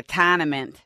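Boston "tournament" with no R; mock Boston dropped R in "tournament"; Boston accent. Shown as a demonstration. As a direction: say "tournament" as "tah-nament", Boston style. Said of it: "if you were from Boston".

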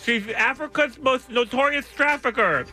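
talking through a mouth guard; news read with a mouthful of plastic. Real, not acted. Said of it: "Listen to the saliva".

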